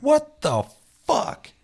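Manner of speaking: very high squeaky what the fuck; disbelief. Real, not acted. Reacting to a bizarre video.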